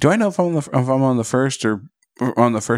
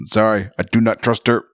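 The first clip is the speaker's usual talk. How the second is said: put-on Russian accent. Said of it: "my Russian accent".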